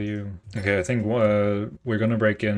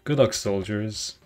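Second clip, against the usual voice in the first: slow, light British send-off; a hint of a British officer's farewell; British accent. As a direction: wish them luck like a British officer. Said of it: "good British accent".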